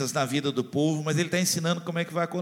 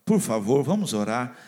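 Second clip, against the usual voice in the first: ordinary talk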